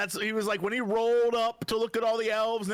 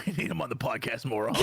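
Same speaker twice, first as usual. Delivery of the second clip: laughing; 9 semitones lower, faster than usual. Real, not acted. Laughing while joking.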